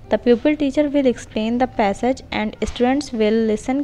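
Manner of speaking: very slow, every word spaced for note-taking; slow dictation. Shown as a demonstration. Teacher dictating a model question to trainee teachers, very slow. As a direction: spell it out slowly so they can write it down. Dictates lesson plan text.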